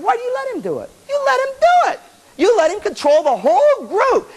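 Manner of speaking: scolding the band for giving in; pointed scolding. Retold or imitated. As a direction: call the whole group out.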